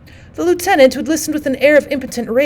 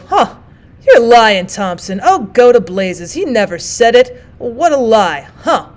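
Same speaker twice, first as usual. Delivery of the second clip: loud, pleased mock scoff; embarrassed scoffing; 5 dB louder, slower than usual. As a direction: brush it off, secretly delighted. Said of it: "these youthful scoffings and embarrassments".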